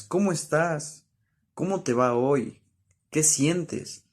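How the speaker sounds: ¿Cómo estás? asked with a clear rising question tune. Shown as a demonstration. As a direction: ask each one like a real question. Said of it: "se escucha la entonación de duda".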